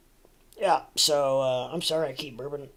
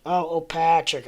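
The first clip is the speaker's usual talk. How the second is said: high, slow fake surprise; mock realization; 5 semitones higher, 9 dB louder than usual. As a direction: act out a sudden "oh". Teacher feigns realization again.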